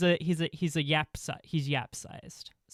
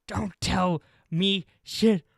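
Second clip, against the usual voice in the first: gruff dwarf voice; 4 semitones higher, 6 dB louder, slower than usual. Acted.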